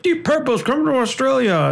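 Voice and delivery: put-on teasing take on an Australian accent; imitating bad Australian accent. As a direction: mimic a friend's poor Aussie accent. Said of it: "you're just like".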